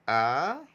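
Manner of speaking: loud, long अ for repeating; teacher's drawn-out, isolated अ; model sound. Shown as a demonstration. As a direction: hold अ out loudly on its own. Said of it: "मैं बोलता हूँ, आप मेरे साथ बोलेंगे".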